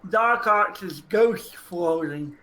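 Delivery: slow clear repeat. Real, not acted. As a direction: repeat it slowly so they catch it.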